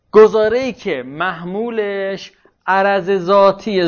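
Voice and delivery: slow, drawn-out words while writing; dictating. Real, not acted. Teacher writing out a definition for students, slow dictation. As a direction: stretch each term out as you write it.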